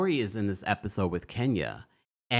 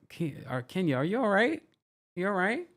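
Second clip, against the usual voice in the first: high, questioning lilt on a mock welfare check; concerned check-in; 9 semitones higher than usual. Baffled fan checking on Kenya, high-pitched concern. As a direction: ask it high, as if doubting they're okay. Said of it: "I was just like".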